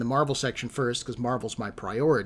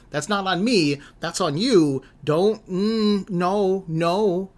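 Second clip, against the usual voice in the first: raised, louder mock-indignant protest; indignant refusal; 6 semitones higher, 5 dB louder, much slower than usual. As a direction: refuse the blame, voice climbing. Retold argument, refusing the blame.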